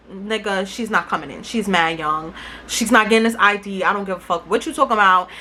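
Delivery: a hint of a rude doorman; gruff bouncer. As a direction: brush her off like a bored bouncer. Bouncer voiced dismissively.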